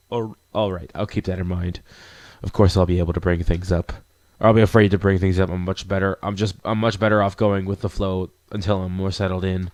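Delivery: reply as a hesitant newcomer; low-key, lightly voiced player character; reserved protagonist.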